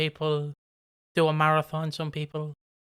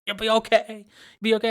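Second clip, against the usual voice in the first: imitating cousin; 4 semitones higher, 4 dB louder, faster than usual. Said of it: "holds me like I'm about to die".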